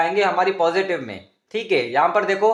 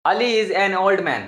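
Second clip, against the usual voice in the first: slow example sentence; much slower than usual. Shown as a demonstration. Teacher reading a model sentence to students, slow. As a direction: dictate the sentence slowly and clearly. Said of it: "simple sentence बता दूँ".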